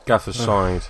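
usual speaking voice

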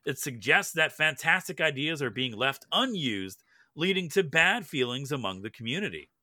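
steady newsreader delivery; news read. Acted. Reads the news segment.

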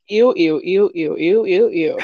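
loud repeated grossed-out ews; disgusted ew. Retold or imitated. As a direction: act openly grossed out. Mocking a classmate with disgust.

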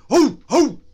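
two loud, high hooting barks; playful high-pitched woofs; imitated dog barks. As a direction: bark like a big dog.

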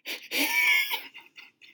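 high burst of laughter; loud laugh. Real, not acted. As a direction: crack up loudly. Laughter at the bit.

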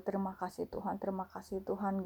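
softly repeated thanks; quiet prayer. Retold or imitated. Anxious wife thanking God, quiet prayer.

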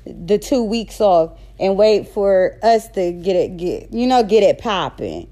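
tripping over words with restarts; halting, self-correcting delivery; stuttering. Real, not acted. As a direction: stumble and restart as you get the thought out. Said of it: "I'm stuttering so much".

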